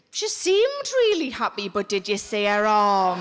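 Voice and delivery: whisper-gossip it with relish; mock gossiping stranger; gossiping onlooker. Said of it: "leave my company going".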